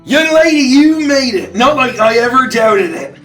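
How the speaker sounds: high, loud fussing granny; doting grandma voice. Acted. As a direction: fuss over her like a grandma. Barnabas greets returning Daisy.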